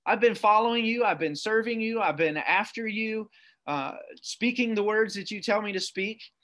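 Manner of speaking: lightly voiced prophet grumbling to God; whining tirade. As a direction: whine it out to God, mildly hammed-up. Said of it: "this little whining tirade".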